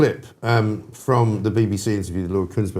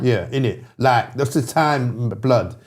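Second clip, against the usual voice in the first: Bermondsey patois; slower than usual. Shown as a demonstration. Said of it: "That's how they talk".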